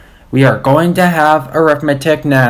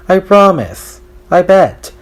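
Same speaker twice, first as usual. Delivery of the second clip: pigtail voice; 7 semitones higher than usual. A narrator's reading. Talking pigtail voiced by narrator.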